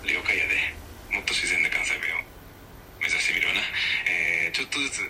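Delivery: non-native attempt at Kansai dialect. Shown as a demonstration. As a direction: have a light go at natural Kansai speech. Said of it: "関西弁喋れる？". (ちょっと不自然な関西弁)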